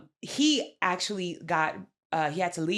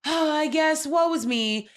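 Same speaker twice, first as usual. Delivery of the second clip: higher, quick mocking valley-girl voice; hammed-up self-pity, sighing woe is me; mock whiny reality girl; 6 semitones higher than usual. Friend mocking a contestant's fake sadness, higher and fast. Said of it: "she's just like".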